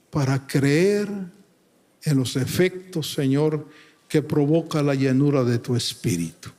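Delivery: earnest, measured pastoral prayer; solemn, sincere address to God; closing prayer. Real, not acted. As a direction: pray aloud for the congregation, pausing between phrases.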